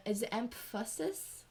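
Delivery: EMPHASIS tried out as a question; questioned pronunciation. Shown as a demonstration. Kid checking how a word is said, questioning. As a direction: say "emphasis" unsurely, tune rising. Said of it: "It's not emphasis, though".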